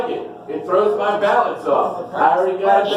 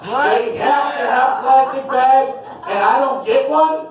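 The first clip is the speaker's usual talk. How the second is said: mock angry rant; 5 semitones higher than usual. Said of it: "That makes me mad".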